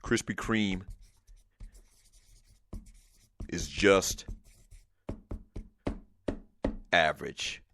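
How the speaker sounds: each word spaced by long pauses; emphatic slow proclamation. Shown as a demonstration. Host solemnly reading out a caller's award nomination. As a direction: announce it slowly, word by word, like a ceremony. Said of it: "make it emphatic".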